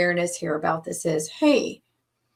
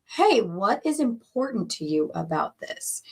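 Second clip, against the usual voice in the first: kind whisper. Shown as a demonstration. Coach contrasts the kind way to ask, whispered gentle question. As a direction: whisper it with true curiosity and kindness. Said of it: "Do you hear the difference?".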